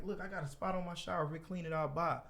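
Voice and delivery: a hint of a chipper old customer; energetic friendly old man. Homeowner offering the salesman a deal, mildly energetic. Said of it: "energetic, like, nice as hell".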